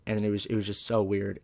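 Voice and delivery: usual speaking voice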